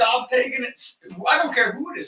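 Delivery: high, loud plea to stop; exasperated shout. Real, not acted. Friend stopping Jim's rant, loud exasperated call. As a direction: cut him off loudly.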